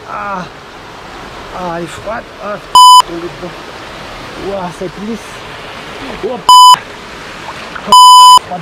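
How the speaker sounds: shocked by freezing water; in ice cold water. Real, not acted. Stepping into icy pool.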